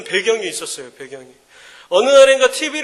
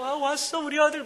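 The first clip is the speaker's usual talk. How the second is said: doting mother; 5 semitones higher, 5 dB quieter than usual. Retold or imitated. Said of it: "막 이래요".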